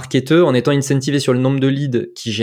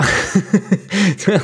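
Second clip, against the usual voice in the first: brief high laugh; short amused laugh; 6 semitones higher than usual. Real, not acted. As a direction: laugh it off lightly. Laugh after answer.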